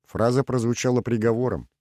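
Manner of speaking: plain reading voice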